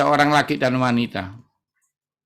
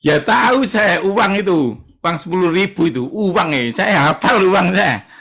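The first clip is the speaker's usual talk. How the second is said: indignant patient; 4 semitones higher than usual. Retold or imitated. Sick patient answering doctor proudly.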